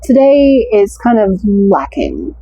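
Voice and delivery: British accent that slips into American; attempted British accent. Shown as a demonstration. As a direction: have a go at a British accent, not quite landing it. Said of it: "That's more American than British".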